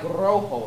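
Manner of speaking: "rojo" with a rolled Spanish R; "rojo" said slowly, R rolled. Shown as a demonstration. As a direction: trill the first sound of "rojo". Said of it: "rolling the R".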